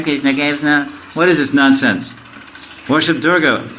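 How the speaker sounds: mild mock scolding of devotees; mock scolding atheist. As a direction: mimic a sneering critic mocking the chanting.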